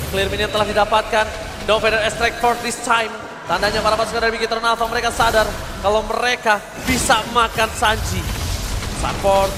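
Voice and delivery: esports caster. Real, not acted. Steady live play-by-play commentary.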